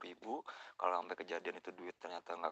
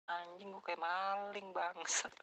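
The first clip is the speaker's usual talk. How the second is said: angry cursing; 10 semitones higher, much slower than usual. Retold or imitated. Cursing, treated like a thief.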